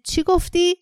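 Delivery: high-pitched, incredulous outburst; outraged roar. A narrator's reading. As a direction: demand it in outrage, pitch leaping up. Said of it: "نعره کشید".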